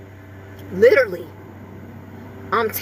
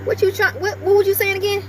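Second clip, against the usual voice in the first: lilting, higher voice for the dog; high pet talk; 7 semitones higher than usual. Real, not acted. Owner coaxing her toy poodle to talk, sing-song. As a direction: coax the little dog to speak.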